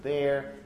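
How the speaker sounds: "There" with the final r sounded; rhotic "There". Shown as a demonstration. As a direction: let an r creep into the end of "There". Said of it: "I've actually made it more rhotic now".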